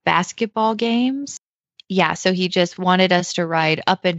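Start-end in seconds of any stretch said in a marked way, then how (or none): 0.1-1.4 incredulous question. Retold or imitated. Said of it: "And I was like".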